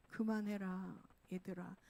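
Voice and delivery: lightly voiced God, weary and hushed; pained God. Pained God calling the children to stop, subdued plea. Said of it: "너무 하나님이 고통스러운 것들이".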